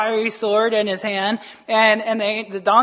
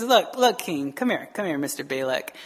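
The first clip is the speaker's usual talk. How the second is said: confiding aside; 7 semitones lower, 5 dB quieter than usual. Acted. Prophet takes the king aside.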